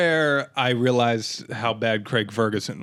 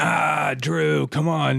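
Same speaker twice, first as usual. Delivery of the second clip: raised, drawn-out groan of dismay; mock-pained appeal; exasperated plea; 5 semitones higher, much slower than usual. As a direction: plead with him, stretching the words out. Groaning at Drew's behaviour.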